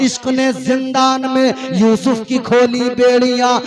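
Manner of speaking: rhythmic, declaiming religious verse; poetic recitation. Acted. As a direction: recite it like a preacher's poem.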